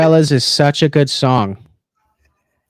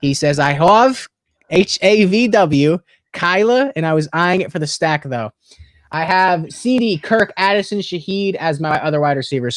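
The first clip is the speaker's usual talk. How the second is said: put-on lightly done Italian accent reading; a touch of an Italian accent. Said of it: "in the Italian accent".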